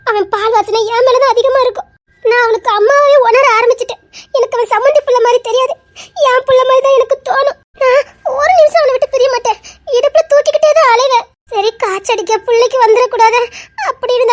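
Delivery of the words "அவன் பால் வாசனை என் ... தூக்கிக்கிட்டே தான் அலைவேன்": put-on wife tearfully describing raising the boy; tearful outpouring. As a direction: build as the grief spills over. Wife pours out love through tears.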